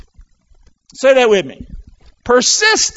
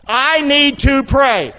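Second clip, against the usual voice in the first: emphatic declaration; 5 semitones higher, slower than usual. Shown as a demonstration. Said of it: "Come on".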